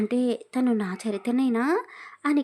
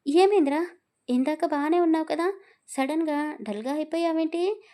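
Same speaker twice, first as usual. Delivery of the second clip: higher, louder worried question; concerned friend; 6 semitones higher, 4 dB louder than usual. Acted. Friend asks why he's dull. (స్నేహితుడు ఆందోళనగా గట్టిగా అడగడం)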